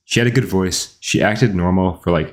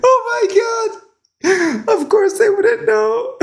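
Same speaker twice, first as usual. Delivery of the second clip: laughing. Real, not acted. Laughing at a VTuber's English.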